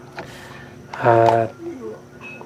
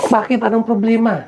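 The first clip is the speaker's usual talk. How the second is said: surprised asking; 10 semitones higher than usual. Retold or imitated. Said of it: "Sabi ko".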